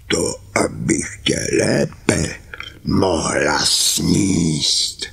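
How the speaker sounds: slow, drawn-out menacing wolf; big bad wolf. The wolf revealing himself to Karkulka, slow and menacing. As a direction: stretch it out, then pounce.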